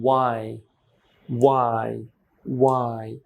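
"why" said singly, carefully, with pauses; isolated, falling "why", repeated for learners; pronunciation model. Shown as a demonstration. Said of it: "এখানে why কিভাবে বলছি?". ("why" আলাদা করে, স্পষ্ট উচ্চারণে)

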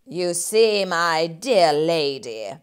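butter her up; oily landlord voice; sly rat. Acted. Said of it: "the sly rat begins".

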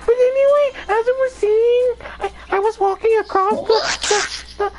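dramatic story narration voice. Acted. Narrates own game character story.

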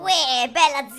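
Milanese slang voice. Acted. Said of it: "ora proverò tipo a cambiare accento".

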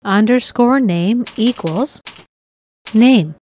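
reading code aloud word by word, with long pauses; dictating. Shown as a demonstration. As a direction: spell out each token slowly for typing. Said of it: "here we'll type the following code".

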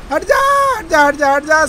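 high-pitched call to move; urgent high warning; urgent yell. Real, not acted. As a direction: yell high for them to clear off. Calling at players blocking the way.

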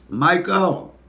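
loud, high mama calling her son. Retold or imitated. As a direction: imitate a mother hollering a name. Voices mama calling him.

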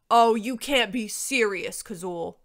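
slow, loud, exasperated dragon; irritable. A narrator's reading. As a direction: protest in loud disbelief. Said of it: "Warog said irritably".

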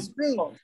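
spring said slowly, with a clear S in the sp cluster; careful model of spring. Shown as a demonstration. Teacher drills the class on spring, clearly sounding the S. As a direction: sound out every letter of spring. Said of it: "这个S一定要读出来".

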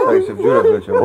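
high squeal through laughter; laughing. Real, not acted. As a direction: laugh out the words. Laughing at man falling in hole.

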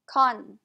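"Con" with its second O reduced to uh; schwa in second vowel. Shown as a demonstration. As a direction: say "Con" with a weak, unstressed ending. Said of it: "It's a schwa too".

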